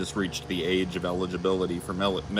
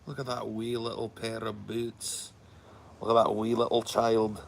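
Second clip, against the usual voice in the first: cooing over something tiny; 4 semitones higher, 5 dB louder than usual. Shown as a demonstration. Showing how you'd say wee to a friend, cooing. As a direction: coo at a tiny cute thing.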